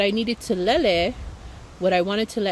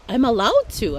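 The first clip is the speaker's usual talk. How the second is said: firm realization; 3 semitones higher, 6 dB louder than usual. Retold or imitated. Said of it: "I told her".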